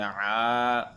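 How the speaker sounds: আ pressed hard in the throat; pressed ain. Shown as a demonstration. Teacher shows the pressed আ again. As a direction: press আ out with force. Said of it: "চাপ দিয়ে পড়তে হবে".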